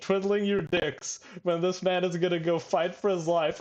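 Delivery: mock indignant rant broken by laughter; half-laughing imitation of a tirade; retold shouting. Fan retelling a character scolding idle diners, mock shouting through laughs. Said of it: "Dude, stop shouting".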